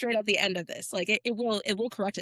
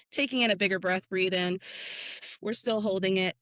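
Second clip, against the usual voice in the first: guided breathwork. Acted. Leads a breathing exercise.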